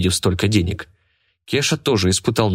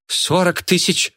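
much higher, slow shouted bid; 10 semitones higher, slower than usual. A narrator's reading. Айгуль shouts a huge bid across the auction hall. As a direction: throw the huge number out to stun them. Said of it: "крикнула Айгуль".

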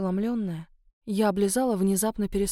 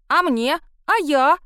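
put-on eager little girl; 6 semitones higher, 7 dB louder, slower than usual.

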